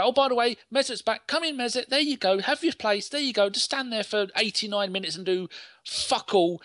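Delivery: mock casual welcome. Team waving the absent player back in, mock welcome. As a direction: wave him back in with mock breeziness.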